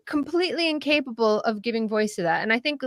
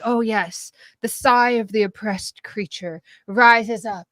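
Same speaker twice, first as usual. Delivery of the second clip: mock lament. Mock lament joking about PR.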